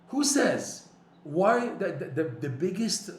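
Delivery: high, loud challenge; indignant rebuttal. Real, not acted. Rebuts the despairing quote.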